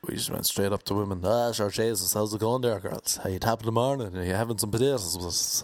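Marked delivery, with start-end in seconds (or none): 1.2-5.1 lilting stage-Irish patter; hammed-up Irish. Irish lads chatting up American women, hammed-up Irish brogue. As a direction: lay the Irish accent on playfully.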